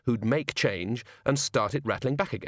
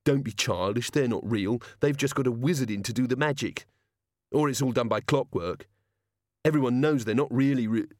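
put-on older child. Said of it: "Another, older child opined".

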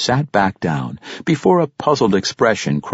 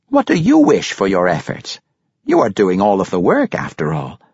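grandfather prompting, slightly louder; lightly voiced Pericolo; 3 semitones higher, 5 dB louder than usual. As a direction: press the question gently in character. Narrator voices Pericolo asking.

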